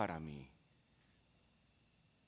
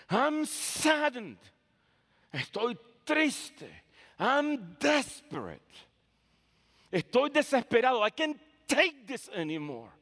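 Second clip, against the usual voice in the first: despairing prayer; 8 semitones higher, 4 dB louder, slower than usual. Acted. Voicing a desperate prayer.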